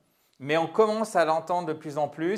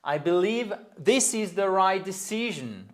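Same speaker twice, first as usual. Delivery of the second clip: higher model sentence stressing LIEVE in "believe", CI in "decision"; second-syllable stress; 5 semitones higher than usual. Shown as a demonstration. Teacher modelling word stress, second syllables of "believe" and "decision" stressed. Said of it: "seconde syllabe, le stress".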